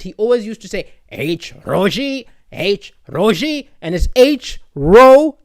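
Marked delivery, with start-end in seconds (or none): 1.1-3.7 slow imitation of a Sri Lankan physics teacher; thick Sri Lankan accent. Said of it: "in his thick Sri Lankan accent".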